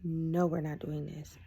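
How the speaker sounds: slow, firm refusal; serious refusal. Retold or imitated. Woman deciding she is done with him, serious. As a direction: put your foot down, slowly. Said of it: "I was serious".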